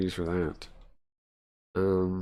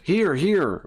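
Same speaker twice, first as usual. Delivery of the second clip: urgent, higher excited call; eager pointing; 7 semitones higher than usual. Acted. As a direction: urge them to look, pointing. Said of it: "he thrusted towards one of the files".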